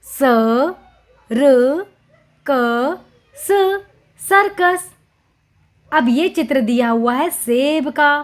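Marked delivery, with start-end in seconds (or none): 0.1-3.8 "स, र, क, स" as four separate drawn sounds; "स, र, क, स" each letter said alone, slowly. Shown as a demonstration. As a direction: sound out "स, र, क, स" with long pauses. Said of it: "बोलकर देखिए".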